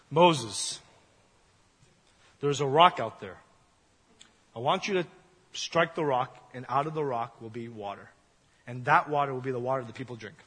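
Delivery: a mild James Earl Jones style God. Retold or imitated. Preacher imitates God's deep voice telling Moses to strike the rock. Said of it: "pretend to be you as the voice of God".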